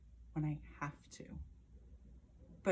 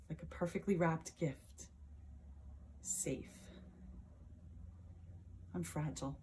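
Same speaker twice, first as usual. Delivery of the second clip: withdraw gently, as if sheltering in safety; soft, fragile retreat; 7 dB quieter than usual. Acted. Retreats into her safe box.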